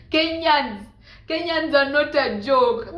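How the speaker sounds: loud, slow emphasis on not; exclaiming. Real, not acted. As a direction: proclaim it with mock exasperation. Exclaiming about Kenyans.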